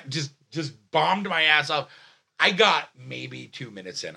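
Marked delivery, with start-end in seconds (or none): 2.4-4.2 raised storytelling voice; yelling. Real, not acted. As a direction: keep the voice up, still worked up. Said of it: "I'm sorry I'm yelling".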